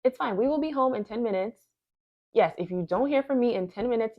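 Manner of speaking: lightly acted reassurance on the phone; re-enacted phone call. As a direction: act out promising a worried partner by phone. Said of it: "So I pretend to have a conversation".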